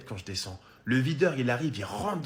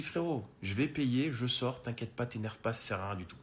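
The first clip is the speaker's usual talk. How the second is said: de plus en plus doux, pour calmer; désamorcer gentiment, voix qui s'éteint; apaisant; 5 dB quieter than usual. Retold or imitated. Calmer le videur. (à voix douce, pour calmer le videur énervé)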